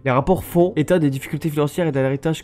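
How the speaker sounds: measured newscaster read; news report read. Acted. Streamer reading the epilogue like a newscaster, measured. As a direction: read it like a TV bulletin.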